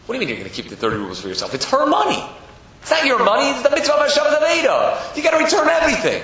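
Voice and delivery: angry crowd. Acted. People objecting to his keeping thirty rubles, angrily. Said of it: "started getting a little angry".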